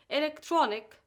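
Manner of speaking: elec-TRON-ic, third syllable stressed; stress before last syllable. Shown as a demonstration. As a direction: punch the TRON in electronic. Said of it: "stressed on the syllable before".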